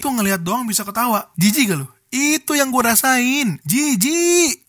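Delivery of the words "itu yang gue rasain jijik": disgusted. Real, not acted. Disgusted punchline.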